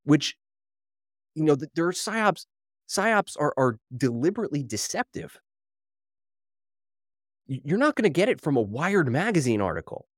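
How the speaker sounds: breathless after a fast rant; winded, worked-up talking; out of breath. Real, not acted. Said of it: "I'm almost out of breath".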